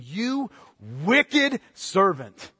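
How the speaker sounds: slow, drawn-out condemnation; stern master's rebuke. Acted. King condemning his servant, slow and stern. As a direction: let each word fall as judgment. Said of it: "the master summoned him and said".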